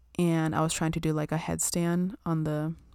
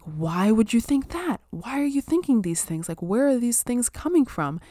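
higher, puzzled questioning of her own thought; inner voice asking herself; 6 semitones higher, 4 dB louder than usual. Retold or imitated. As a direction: ask yourself why in a raised, disbelieving voice. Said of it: "I was like".

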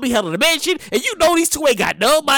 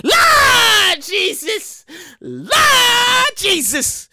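exasperated Lord Jesus; 5 semitones higher, much slower than usual. Real, not acted. Host crying out at people returning found jewelry. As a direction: stretch it out to the heavens.

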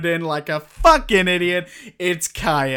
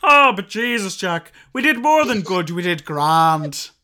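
through tears. Acted. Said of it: "through your tears".

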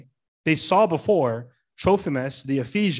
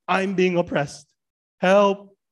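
mock victim cry; 4 semitones higher, 3 dB louder, slower than usual. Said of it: "As if they're the victims".

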